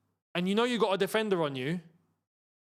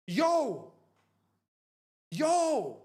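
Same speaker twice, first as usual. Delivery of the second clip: excited; 6 semitones higher than usual. Real, not acted. Reacting to the play.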